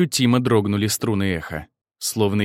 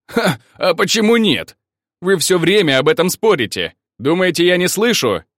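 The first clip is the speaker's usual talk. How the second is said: teasing; 6 semitones higher, 4 dB louder than usual. Acted. Maksim teasing the girls loudly.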